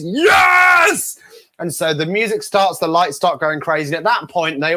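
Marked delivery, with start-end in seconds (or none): 0.0-1.2 huge high-pitched shout; hammed-up, drawn-out cheer of acceptance; excited yes. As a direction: yell it long and loud, high above your voice. Eager volunteer accepting, acted out.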